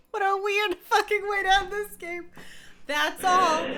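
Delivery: loud exasperated outburst; exasperated shout. Real, not acted. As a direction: throw the words out in exasperation. Exasperated end-of-game outburst.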